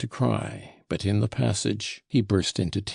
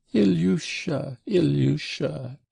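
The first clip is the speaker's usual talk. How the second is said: high, drawn-out wail of the name; tearful exclamation; 7 semitones higher than usual. A narrator's reading. Mother bursting into tears over her son, wailing. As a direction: cry out slowly, pitch way up. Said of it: "she exclaimed".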